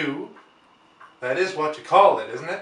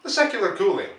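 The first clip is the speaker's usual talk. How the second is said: measured, storyteller's reading voice; story narration. A narrator's reading. Storyteller reading War of the Worlds to his viewers, measured narration. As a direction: read it like a classic novel to listeners.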